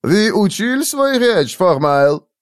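put-on high, testy foreign-accented question; accented professor figure. A narrator's reading. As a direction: question him like a fussy foreign teacher. Kleinman, foreign-sounding hypnotist, questions him.

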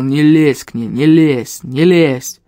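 stressed, mechanical repetition; repeating like clockwork. A narrator's reading. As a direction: hammer each warning out obsessively. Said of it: "как заведённый, повторял".

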